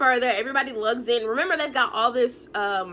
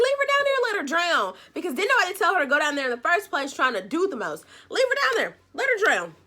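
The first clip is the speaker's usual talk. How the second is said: higher, fed-up exclamation; exasperated outburst; 4 semitones higher, faster than usual. Real, not acted. Viewer fed up with Kenzie, high exasperated outburst. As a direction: throw up your hands at her.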